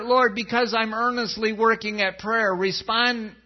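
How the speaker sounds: hammed-up me-first praying; mock selfish prayer. Shown as a demonstration. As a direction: parody a self-centred plea. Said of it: "sound more like this one".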